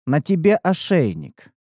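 slow, even, no feeling; monotone voice. Acted. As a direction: keep every word level. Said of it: "продолжил монотонный голос".

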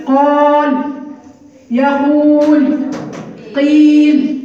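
قال، يقول، قيل with each long vowel held; drawn-out long vowels. Shown as a demonstration. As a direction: stretch the madd in قال، يقول، قيل slowly. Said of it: "زي ايه؟". (مدّ الحروف في قال يقول قيل ببطء)

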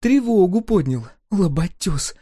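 high, loud gloating jeer. A narrator's reading. Girl gloating to Kudyka about the guard, jeering. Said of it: "злорадно засмеялась".

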